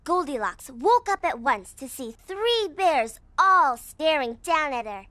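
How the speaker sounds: reading a fairy tale aloud; lively storybook narration. Acted. Girl reads Goldilocks to her bear friend, storybook narration.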